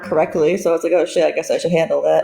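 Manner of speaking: hollow phone sound, like in a tunnel; distant, echoey phone voice; echoing tunnel. Real, not acted. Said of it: "You sound like you're in a tunnel".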